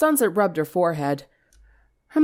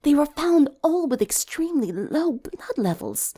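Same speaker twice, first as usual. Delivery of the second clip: higher, detached reporter read; news report voice; 8 semitones higher than usual. Acted.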